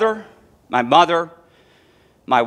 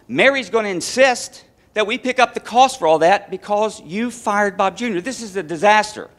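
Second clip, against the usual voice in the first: higher pitched, incredulous scolding; exasperated wife; 5 semitones higher than usual. Retold or imitated. Wife scolding her husband over the phone, higher and exasperated. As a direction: pile on the outrage, mock-frantic.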